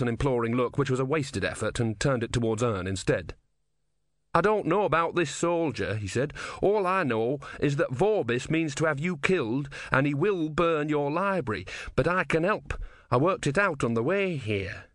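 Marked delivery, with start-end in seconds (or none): 4.3-14.9 lightly voiced young man, pitched higher; earnest young man. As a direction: plead the case a little higher than narration. Voices a character's pleading speech.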